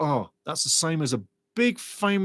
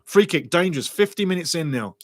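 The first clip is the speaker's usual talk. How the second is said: ordinary talk, nothing marked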